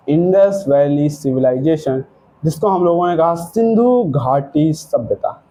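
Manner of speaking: slow, low, deliberate announcement of Indus valley civilisation; slow emphatic naming. Shown as a demonstration.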